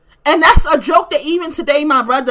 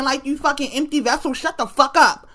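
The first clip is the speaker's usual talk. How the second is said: softer, dismissive put-down to an online stranger; scornful retort; 4 dB quieter than usual. Retold or imitated. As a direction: mutter it with contempt. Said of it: "And I'm like".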